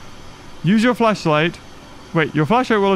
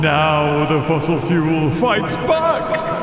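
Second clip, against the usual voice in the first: mock trailer voice; 3 semitones lower, slower than usual. Mock movie trailer line.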